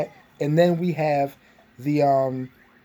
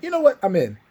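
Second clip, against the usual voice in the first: much higher, louder offhand agreement; high casual Maze voice; 5 semitones higher, 4 dB louder than usual. Retold or imitated. Maze retold agreeing to join, higher and louder. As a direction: toss it off like it's nothing.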